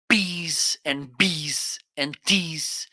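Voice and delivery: slow, separated "peas and bees and teas", each opening consonant popped; plosive demonstration. Shown as a demonstration. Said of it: "So you can say".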